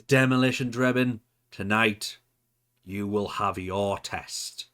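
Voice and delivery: name called out, then slow ominous decree; cryptic promo. Acted. Manager singles out a henchman for his test, cryptic promo. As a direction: deliver the verdict slowly, word by word. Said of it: "cut a very cryptic promo".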